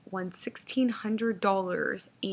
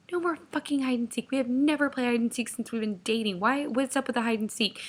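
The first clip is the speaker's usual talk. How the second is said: mildly mad, higher-pitched refusal; retold exasperation; 4 semitones higher than usual. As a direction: act out shutting down a silly request. Retold quarrel, refusing the game.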